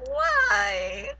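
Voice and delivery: very high, drawn-out mock wail; anguished wail. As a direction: wail it like a heartbroken fan. Wailing at character's death.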